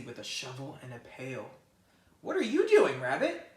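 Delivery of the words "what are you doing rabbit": high, louder mouse calling. Acted. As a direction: call across the meadow to a friend. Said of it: "Mouse called".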